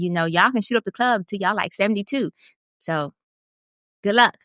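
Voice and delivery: lightly sarcastic well-wishing. Real, not acted. Host addressing the absent celebrity father, lightly sarcastic. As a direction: wish him well with a touch of sarcasm. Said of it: "the sarcasm in your voice, your tone".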